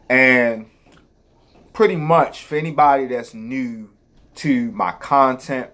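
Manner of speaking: talking while chewing gum; words around a wad of gum. Real, not acted. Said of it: "I have gum in my mouth".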